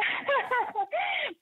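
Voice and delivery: a burst of high laughter that trails off; can't help laughing mid-sentence; real laugh. Real, not acted. Caller laughs at the host's remark on the show, breaking into laughter.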